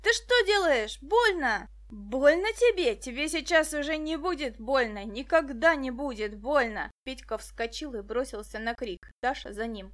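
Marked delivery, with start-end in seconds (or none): 0.0-1.7 high, loud cry of pain; captured boy crying out in pain. A narrator's reading. 1.9-6.9 put-on villain threatening the boy, loud and cruel; menacing threat. A narrator's reading.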